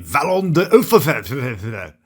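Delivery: slow, mangled attempt at "Vallon de Hautefeuille"; "Vallon de Hautefeuille" drawn out and botched; badly pronounced French. Real, not acted. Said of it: "I've probably pronounced very badly".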